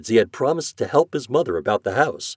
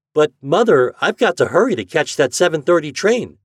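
put-on higher, loud, urgent boy; urgent hurry; 8 semitones higher, 8 dB louder than usual. Boy telling mother about the train, urgent. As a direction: press your mother, you must be off.

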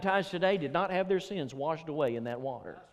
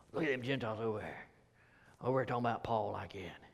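lightly voiced grumbling faction member; church member voice; 3 semitones lower than usual. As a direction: Jewish believers muttering low about the Gentiles. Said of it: "you could see them over there".

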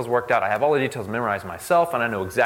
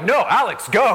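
urging inner voice; 9 semitones higher, 5 dB louder than usual. Retold or imitated. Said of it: "I'm like".

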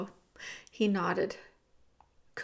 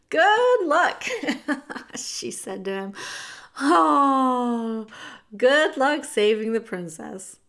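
loud, higher chuckling good luck; amused send-off; 3 semitones higher, 6 dB louder, slower than usual. Acted. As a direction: tease him kindly as he goes. Cook chuckles seeing him off.

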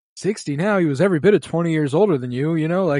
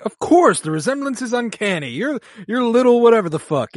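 pitched-up, theatrical Gustave; a bright, higher mimic of the grand concierge; higher, louder flamboyant mock Gustave; high Gustave impression; 11 semitones higher, 5 dB louder than usual. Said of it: "And he's like".

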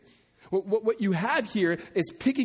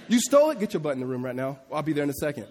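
strict mom; faster than usual. Retold or imitated. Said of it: "Maybe my mom talked like that".

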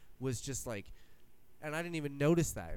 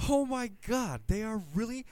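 much higher, louder fan squeal; thrilled shout; 10 semitones higher, 6 dB louder than usual. Retold or imitated. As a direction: scream it like you can't believe it. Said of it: "And you're like".

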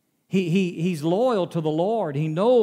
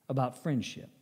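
soft repeat, much softer; quiet echo; 5 semitones lower, 10 dB quieter than usual. Shown as a demonstration. Preacher repeating the key point softly to the congregation. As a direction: let it sink in, dropping the voice.

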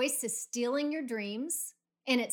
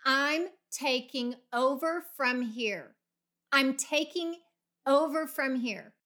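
louder, firm declaration; taking command; 4 dB louder than usual. Acted. Coach modelling what to tell the doubting voice, firm and commanding. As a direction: state it forcefully, taking charge. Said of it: "tell that voice right now".

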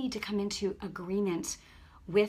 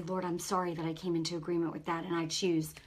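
repentance prayer; 2 semitones lower than usual. Shown as a demonstration.

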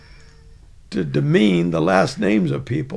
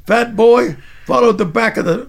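louder, higher barked command; sergeant's command; 5 semitones higher, 4 dB louder than usual. Retold or imitated. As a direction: order him to the back like a drill instructor. Sergeant ordering recruit.

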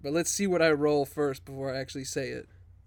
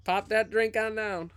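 higher-pitched Southern twang; Southern accent; 5 semitones higher than usual. Acted. Player's character ordering a drink from Beck, Southern accent. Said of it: "I could do a Southern accent".

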